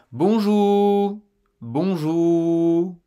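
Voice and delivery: Bonjour with the final R dropped, ending on a bright ou; no R sound. Shown as a demonstration. Teacher showing a bakery greeting without the R. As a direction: say Bonjour, bonjour and swallow the R entirely.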